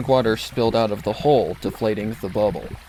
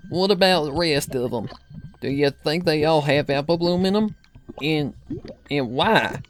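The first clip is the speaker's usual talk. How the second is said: put-on higher worried old granny; fretful grandmother asking anxiously; Granny Smith voice; 5 semitones higher than usual. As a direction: grandmother frightened by the bubbles.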